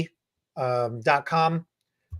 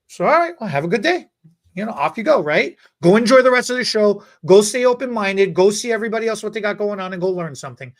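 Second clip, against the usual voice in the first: upbeat and a little louder, shooing her off kindly; brightly sending the student off to enjoy the show; cheerful send-off; 4 semitones higher, 4 dB louder than usual. Retold or imitated. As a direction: hype her up as she leaves. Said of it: "sending her off".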